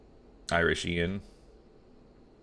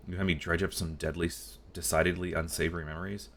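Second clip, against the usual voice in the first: put-on old scribe. Voices NPC Arnold.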